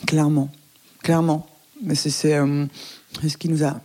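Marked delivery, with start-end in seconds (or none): 1.8-3.8 talking through a mouthful of chocolate; chewing while talking. Real, not acted. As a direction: speak round a bite of chocolate. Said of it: "je mange du chocolat en même temps".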